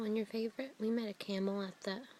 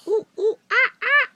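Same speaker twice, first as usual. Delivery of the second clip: loud high ooh ooh ah ah; loud playful chimp hoots; monkey call; 12 semitones higher, 14 dB louder than usual. Shown as a demonstration. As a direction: hoot like a chimp.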